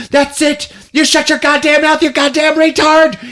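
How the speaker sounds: high-pitched mock tirade; mock furious. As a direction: snap at him in a hammed-up fury. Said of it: "John Doe is like".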